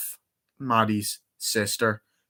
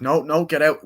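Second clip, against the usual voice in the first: higher, louder imitated protest; retold panicky order, pitched up; mock frantic refusal; 6 semitones higher, 5 dB louder than usual. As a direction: act out shooing someone away urgently. Acting out refusal at the house.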